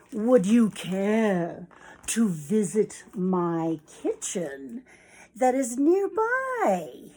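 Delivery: slow, drawn-out storybook invitation; fox's invitation. Acted. Fox asking the hen to visit his kitchen, slowly drawn-out invitation. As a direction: invite politely, drawing out every word.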